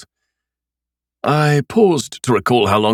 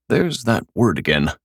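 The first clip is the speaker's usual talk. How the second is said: sour; 3 semitones higher than usual. Acted. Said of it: "I said sourly".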